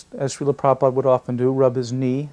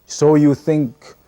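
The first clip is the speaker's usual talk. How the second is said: mock surprise; 7 dB louder, much slower than usual. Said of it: "opens up his eyes really wide".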